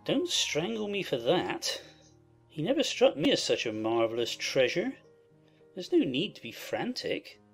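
peevish husband, low with swooping pitch; cross. A narrator's reading. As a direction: complain crossly to an overexcited wife. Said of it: "cried her husband crossly".

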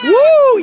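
loud drawn-out "woo"; big exclamation; startled whoop. Acted. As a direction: whoop in mock alarm. Host reacts to buzzing blades.

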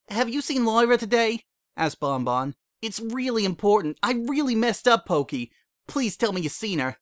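begging for any news of Lyra; desperate Bon Bon. A narrator's reading. Bon Bon begs Pokey for news of Lyra, desperate.

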